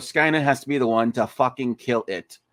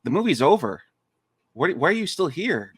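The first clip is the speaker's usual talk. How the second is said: Ferris Bueller; 6 semitones higher than usual. Retold or imitated. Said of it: "Ferris Bueller".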